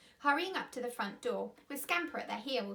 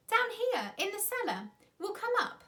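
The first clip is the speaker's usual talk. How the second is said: calling up; 9 semitones higher, 4 dB louder than usual. A narrator's reading. Peter calling from the cellar.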